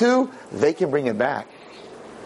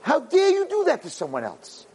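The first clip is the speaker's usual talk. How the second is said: outraged shout; slower than usual. Real, not acted. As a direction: blast the question out. Preacher's outraged outburst.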